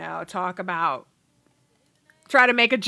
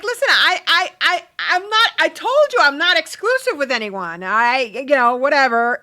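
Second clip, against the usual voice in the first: flustered; 3 semitones higher, 6 dB louder than usual. Acted. Voicing a flustered, defensive character.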